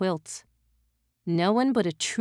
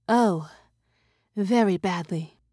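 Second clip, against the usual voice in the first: princess voice. Acted. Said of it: "said the princess".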